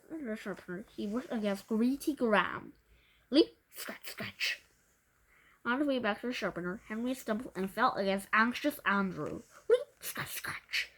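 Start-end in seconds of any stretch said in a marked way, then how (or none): 3.3-4.6 nit jumping. Acted. Voicing the nits' leaping. 9.7-10.9 a tiny nit springing up high then scratching; squeaky nit voice. Acted. Voicing the nits' leaping.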